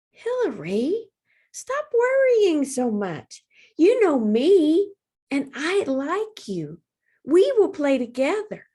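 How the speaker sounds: high, slow, comforting tiny voice; calm your friend down gently; dragonfly soothing her worried friend; reassuring dragonfly. A narrator's reading.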